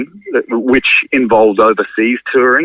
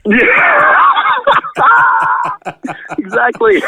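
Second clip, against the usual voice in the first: laughing; much slower than usual. Real, not acted. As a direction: burst into a laugh while agreeing. Laughing agreement with joke.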